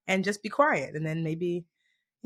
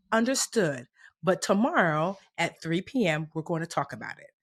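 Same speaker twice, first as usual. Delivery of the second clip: calm parent voice; 4 semitones lower, 6 dB quieter than usual. Retold or imitated. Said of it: "And then you say".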